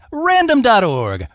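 slow, punchy radio announcer. Shown as a demonstration.

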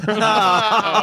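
sound effect laugh. Pretend. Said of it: "Sound effect".

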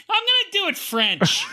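high put-on French voice; a light fake French lilt; mock French accent. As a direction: say it like a hammy Frenchman. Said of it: "was that his real accent".

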